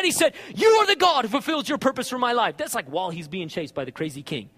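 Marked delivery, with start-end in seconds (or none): 0.5-2.6 forceful, confident proclamation to God; emphatic preacher's shout of faith; bold declaration. Acted. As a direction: declare it firmly, hitting the opening hard. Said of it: "he didn't talk like that".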